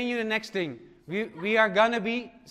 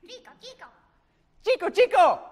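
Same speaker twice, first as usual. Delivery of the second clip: superhero sound; 10 semitones higher, 4 dB louder, faster than usual. Acted. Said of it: "He has one".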